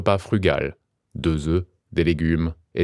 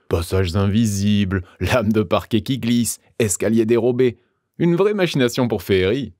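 a touch of boastful glee; joyful exclamation; 2 semitones higher than usual. Acted. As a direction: crow with delight over your clever tricks. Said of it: "s'exclama joyeusement".

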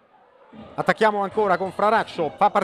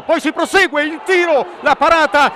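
long held goal scream, high and loud; breathless italian goal commentary; 6 semitones higher, 10 dB louder, much slower than usual. Real, not acted. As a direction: stretch out rete and the scorer's name. Winning goal call.

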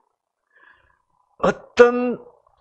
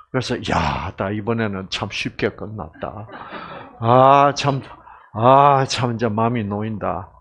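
relieved sigh; 5 semitones lower than usual. Retold or imitated. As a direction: breathe out the relief. Husband relieved after the deal. (안도하며 나직하게)

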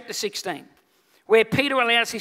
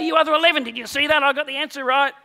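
boastful cheer; 3 semitones higher, 4 dB louder than usual. Acted. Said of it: "Peter's sitting there going".

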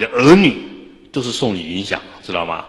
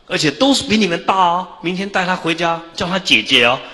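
higher, louder mock father announcing; imitating dad springing the news, higher; father breaking news; 10 semitones higher, 4 dB louder than usual. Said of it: "就把我们招过来". (模仿爸爸宣布消息，声音高昂)

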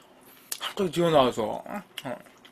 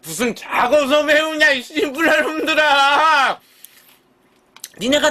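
angry yell; 7 semitones higher, 3 dB louder than usual. Real, not acted. Ranting at teasing viewers.

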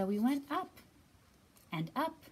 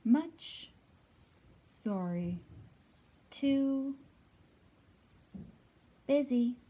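louder, choppy brush-off; mock busy voice; 3 semitones higher, 8 dB louder, much slower than usual. Family member brushing off the kid, louder. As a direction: bark it out like someone too busy.

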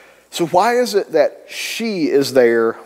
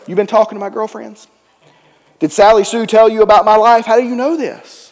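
higher-pitched shocked rush; shocked disbelief; 4 semitones higher, 3 dB louder than usual. Retold or imitated. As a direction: blurt it out, caught off guard. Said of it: "She is shocked and amazed".

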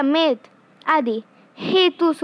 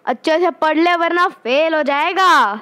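parent's warning; 4 dB louder than usual. Retold or imitated. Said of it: "mummy papa आपको बोलते हैं".

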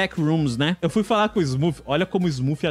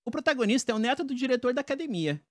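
slightly higher try at a female voice; man doing a woman's voice; 5 semitones higher, 4 dB quieter, faster than usual. Shown as a demonstration. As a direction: try the line as a girl. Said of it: "não sai feminino". (homem tentando fazer voz feminina)

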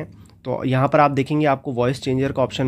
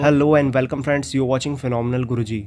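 slow demo greeting; much slower than usual. Shown as a demonstration. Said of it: "हम एक voice record करते हैं".

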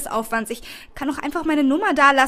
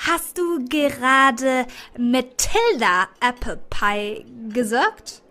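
astonished; much slower than usual. Acted. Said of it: "Sie sagt es derart verwundert".

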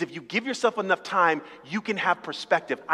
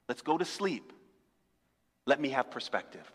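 tender reassurance to spouse. Acted.

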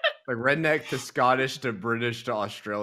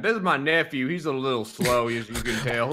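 higher, louder introduction in character; lightly voiced relative; 3 semitones higher, 6 dB louder than usual. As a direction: play someone explaining away an odd nephew. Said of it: "I'd be like".

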